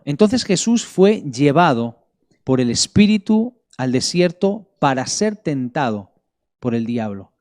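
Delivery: measured Bible reading with weighty pauses; scripture reading. Real, not acted. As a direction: read scripture aloud to a congregation, stretching the key words. Reads the Bible passage aloud. (lectura bíblica solemne y pausada)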